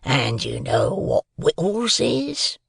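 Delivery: slow, drawn-out rough voice; menacing convict. A narrator's reading. Convict decides whether the boy lives, menacing. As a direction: question slowly, with a threat underneath.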